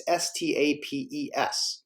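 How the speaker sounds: slow, letter-by-letter spelling. Shown as a demonstration. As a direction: spell it out slowly, one letter at a time. Spelling out the word just pronounced.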